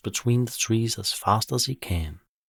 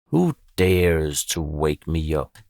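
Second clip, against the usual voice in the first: sleepy mumble; 3 semitones lower, 5 dB louder, slower than usual. Acted. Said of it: "she mumbles".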